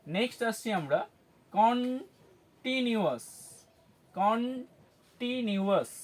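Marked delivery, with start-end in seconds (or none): 1.5-5.9 কন্টিনিউয়াস very slowly, stretched as কন... টিনিউয়াস; drawn-out syllables. Shown as a demonstration. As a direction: pause after কন, then draw out the rest of কন্টিনিউয়াস. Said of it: "সিলেবেলে কীভাবে ভাগ করব". (কন্টিনিউয়াস, খুব ধীরে টেনে টেনে)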